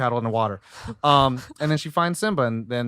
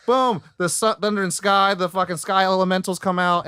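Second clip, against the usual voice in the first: booming high burst, then keep it raised; dramatic excited retelling; 7 semitones higher, 4 dB louder than usual. Retold or imitated. Retelling the thunder and sky climax to co-hosts, excited and dramatic. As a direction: hype up the big moment, pitched high and loud.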